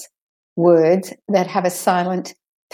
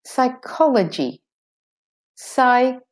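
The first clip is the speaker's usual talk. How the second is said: "psychology" as sy-KOL-uh-jee, silent P; de-stressed second O; 5 semitones higher than usual. Shown as a demonstration. Teacher modelling for learners, "psychology" with weak second O. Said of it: "second O is de-stressed".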